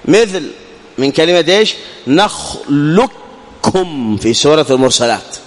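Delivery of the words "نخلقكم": slow نخلقكم said "نخلكّم", qaf vanishing into the kaf; drawn-out demo of the merge; teacher slowly showing complete idgham; full merge. Shown as a demonstration. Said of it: "فأدغمنا القاف في الكاف".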